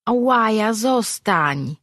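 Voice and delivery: a lightly voiced pet begging; pleading creature. A narrator's reading. Pet creature begging its owner to stay, pleading.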